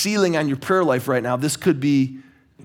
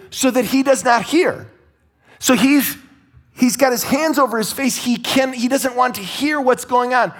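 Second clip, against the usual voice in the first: fervent preaching; 8 semitones higher than usual. Real, not acted. Preacher to congregation, fervent and raised. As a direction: drive it home to the congregation. Preacher builds to high point.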